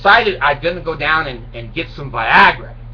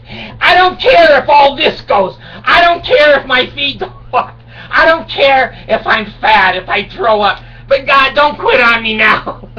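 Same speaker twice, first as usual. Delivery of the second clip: desperate begging; 6 semitones higher, 4 dB louder than usual. Acted. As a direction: beg like your life depends on it. Begging his penis not to quit.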